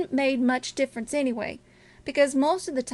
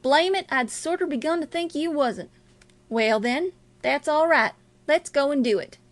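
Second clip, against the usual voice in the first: lightly voiced robber, a bit higher and punchy; impatient robber; 3 semitones higher, 3 dB louder than usual. Robber agreeing to the killing, lightly impatient. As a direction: urge a partner on, rough and ready. Voices Bill, eager to act.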